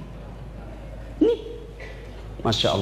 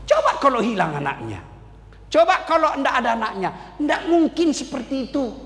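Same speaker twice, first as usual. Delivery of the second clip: Satan whispering. Acted. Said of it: "Apalagi dia bisik".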